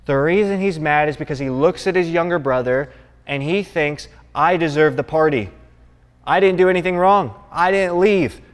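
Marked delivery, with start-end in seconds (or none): 4.3-8.4 put-on resentful older son.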